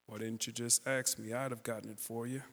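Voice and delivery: lightly voiced James Earl Jones, kindly rumble. Neighbour gently tells the boys he'd have helped, low kindly voice. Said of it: "he has that voice".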